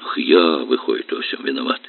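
words strangled by hurt; husband choking with resentment. Acted. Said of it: "чуть не задохнулся Илья".

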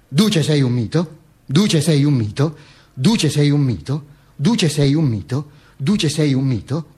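slow, identical singsong with a rise at each end; measured repetition. Retold or imitated. Visitor's guestbook message read out repeatedly, slow low litany.

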